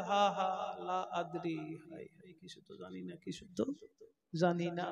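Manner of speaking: lamenting unbeliever. Acted. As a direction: moan helplessly like a lost soul. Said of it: "যারা ইসলাম ধর্ম কবুল করে নাই তারা বলবে". (অবিশ্বাসীর হাহাকার, নিচু করুণ স্বরে)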